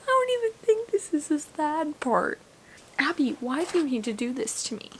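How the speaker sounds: hushed whisper, barely voiced; breathy night whisper; late-night whisper. Real, not acted. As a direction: whisper so nobody wakes.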